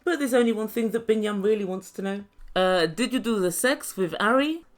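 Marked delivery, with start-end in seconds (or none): 2.6-4.6 low, halting put-on voice; mock blunt questioner. Binyam asks Leandro about his ex, mock blunt. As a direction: lower the voice for an awkward question.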